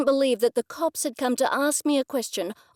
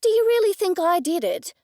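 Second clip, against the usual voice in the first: loud, high, outraged question; indignant; 9 semitones higher, 6 dB louder than usual. A narrator's reading. Suspect confronts the detective, outraged and loud. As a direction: demand an answer, affronted.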